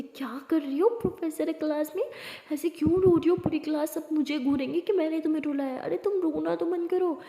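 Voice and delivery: urgent, alarmed protest at a friend's tears; flustered scolding. Acted. Friend fretting the whole class will stare, flustered scolding.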